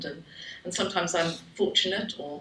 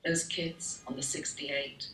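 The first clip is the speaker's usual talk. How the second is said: poetry reading. Acted. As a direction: let the last lines sink slowly to a close. Poem's closing lines.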